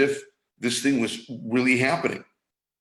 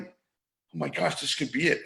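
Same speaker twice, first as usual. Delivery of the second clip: dread; 4 semitones higher, 5 dB quieter than usual. Retold or imitated. Voicing panicking inner voice.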